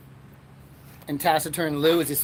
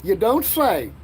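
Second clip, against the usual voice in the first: mock indifference; 5 semitones higher, 4 dB louder, slower than usual. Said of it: "my impersonation of me giving a fuck".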